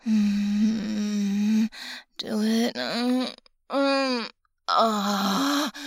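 loud breathy moans; moaning. Acted. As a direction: moan loudly with rising pitch. Moans during the act.

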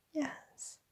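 tiny, timid voice; meek assent. A narrator's reading. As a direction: give in almost inaudibly. Frightened narrator voices meek assent.

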